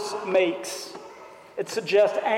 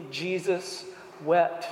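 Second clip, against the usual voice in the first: slow, soft, solemn; 4 dB quieter, slower than usual. Acted. Preacher ends the reading with a slow, soft, solemn hush. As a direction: let the two words land slowly and softly.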